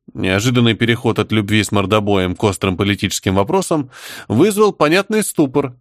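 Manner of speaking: ordinary delivery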